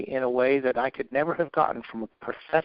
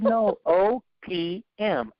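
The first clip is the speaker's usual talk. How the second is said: high, slow, laughing as he corrects; laughing correction; 6 semitones higher, much slower than usual. Retold or imitated. Mentor laughing at his drug mix-up, slow amused correction. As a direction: chuckle through the correction.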